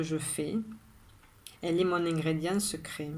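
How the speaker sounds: measured poem reading with long pauses after each line; poem recitation. Acted. Rereads the poem a third time.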